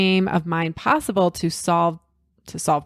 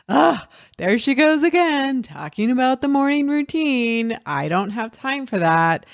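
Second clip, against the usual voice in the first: mock groan, higher at first, falling back; exasperated listener; 4 semitones higher than usual. Listeners fed up with morning routine talk, mock exasperation. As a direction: imitate a mildly fed-up audience member. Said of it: "you guys are already like".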